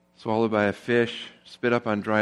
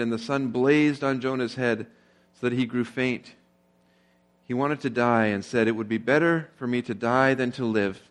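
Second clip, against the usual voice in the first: measured Bible reading to the congregation; scripture reading. Acted. Pastor reading Jonah aloud to the church, a steady scripture read. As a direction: read the verses out, steady and clear.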